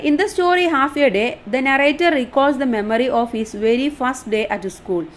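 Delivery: reading the English line out slowly, word by word; slow dictation reading. Shown as a demonstration. Teacher reading the study notes aloud, slow and deliberate. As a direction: spell it out slowly for the class.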